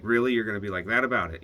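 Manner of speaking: indignant. Retold or imitated. Ex upset he won't come.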